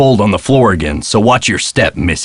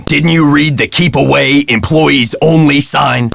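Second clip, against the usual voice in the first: exasperated telling-off, pitched up, drawn-out ending; scolding; 5 semitones higher than usual. Acted. Employee scolds Nancy for ignoring the sign, exasperated. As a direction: scold with a raised, stretched question. Scolding a trespasser at ski lift.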